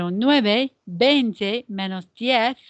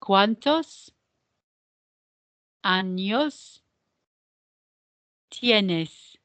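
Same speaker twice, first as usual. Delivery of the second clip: "¿Cuántos... años... tienes?" with long pauses between words; word-by-word model; much slower than usual. Shown as a demonstration. Teacher drills the question's pronunciation, slow word-by-word model. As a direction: leave room to repeat after each word. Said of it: "let's practice the pronunciation of this question".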